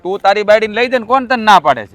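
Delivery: heated repeat; angry retort. Acted. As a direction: throw the question back at him. Brothers quarrel over money.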